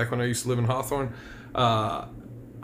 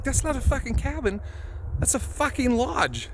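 mock outrage; 10 semitones higher than usual. Disbelief at the huge cabin.

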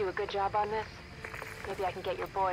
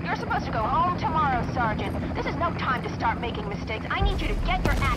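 stern rebuke; 3 semitones higher, 4 dB louder than usual. Acted. Commander scolding sergeant over radio.

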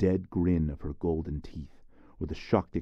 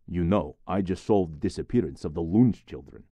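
elated; 6 dB louder than usual. Acted. Tells officer with relief.

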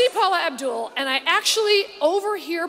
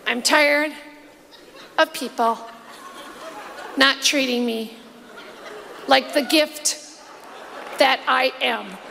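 slow, lower, dreamy mock Paula; Paula impression; 3 semitones lower, slower than usual. Comedian quotes Paula's favorite line, slow mock diva. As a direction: drag it out like a self-admiring diva. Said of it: "And my personal favorite".

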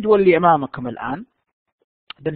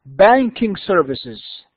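slow dictation; much slower than usual. Shown as a demonstration. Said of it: "Number two".

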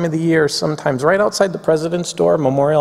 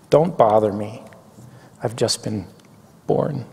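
butterfly speaking; 3 semitones lower than usual. Acted. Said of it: "This is probably the butterfly speaking".

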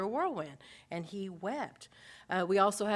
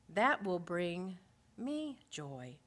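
slow tender close; much slower than usual. Acted. Voicing Paul's hope.

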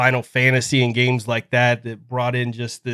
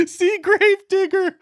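high, laughing announcer voice; monster truck ad. Pretend. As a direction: echo the truck ad hype. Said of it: "those monster truck commercials".

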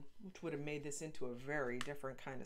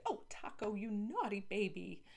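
cooing; 5 semitones higher than usual. Acted. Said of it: "nuzzled him adoringly".

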